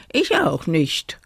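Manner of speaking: a touch of anxiety; mildly fearful, breathy admission; timid call. A narrator's reading. Woolly sheep owns up to the others, mildly anxious. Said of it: "rief Flock ängstlich".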